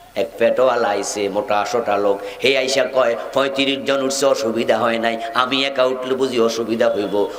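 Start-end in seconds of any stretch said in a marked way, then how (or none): none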